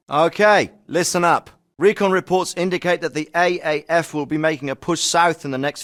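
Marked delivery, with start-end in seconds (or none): 0.1-1.5 calling to attention. Acted. Officer calls troops to attention.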